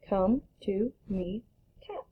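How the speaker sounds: read it fast. Shown as a demonstration. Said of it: "Read it fast".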